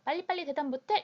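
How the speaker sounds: mildly acted hurry-up, voice lifted; pressing for answer. Extroverted dad demanding an instant answer, mildly mock impatient. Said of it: "대답을 재촉하지 말고".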